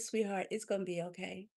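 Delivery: soft, tender reassurance; gentle reassurance. Retold or imitated. Telling a struggling mom it will be okay, gently reassuring. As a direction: softly comfort someone who is struggling. She comforts a struggling young mother.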